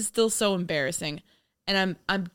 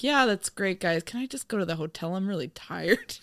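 weary politeness. Retold or imitated. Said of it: "he had to be like".

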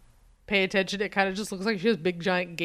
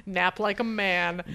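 slow, drawn-out he-man voice; hammed-up admiration for a man nap; lightly voiced tough guy; mock macho; 2 semitones higher, slower than usual. Mock tough-guy quote of watchers.

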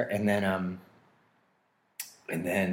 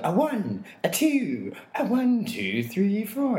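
count-in shout; 12 semitones higher, 4 dB louder, slower than usual. Retold or imitated. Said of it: "I would go".

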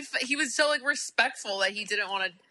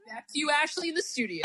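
news anchor voice; 5 semitones higher than usual. Pretend. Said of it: "he has such a news anchor voice".

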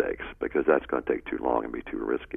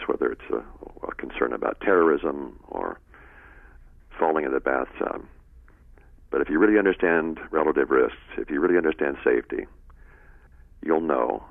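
airline captain addressing passengers; captain's announcement. Acted. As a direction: speak like a pilot on the cabin PA. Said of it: "Let me make a new announcement for you".

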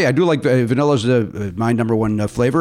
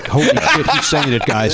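mock dramatic reveal; slower than usual. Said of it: "delivered it like".

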